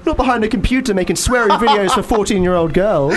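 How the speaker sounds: high, theatrical mock concern; concerned sun character. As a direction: fuss grandly over a moaning friend. Voices the sun in tale.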